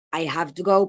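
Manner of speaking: "I have to go" with a v in "have"; example before change. Shown as a demonstration. Teacher introducing the example, "I have to go" with voiced v. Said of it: "pasa de".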